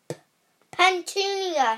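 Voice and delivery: high, loud stammer of shock; stammering gasp. Acted. Uncle gasps his wife's name, stammering in shock. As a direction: gasp out her name in fright. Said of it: "he gasped".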